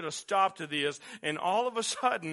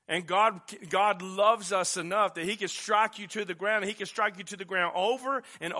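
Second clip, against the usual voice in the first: preaching; 2 semitones higher, 3 dB louder than usual. Acted. Preacher driving the point home.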